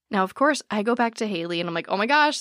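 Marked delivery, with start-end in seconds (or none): 1.9-2.4 excited gasp. Retold or imitated. Retelling her own excited reply.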